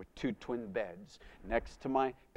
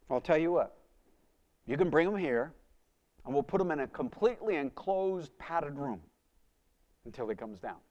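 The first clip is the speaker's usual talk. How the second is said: louder, matter-of-fact doctor; brisk doctor; 3 semitones higher, 5 dB louder than usual. Retold or imitated. Doctor tells the father on the phone, brisk and firm. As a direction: lay out the plan firmly.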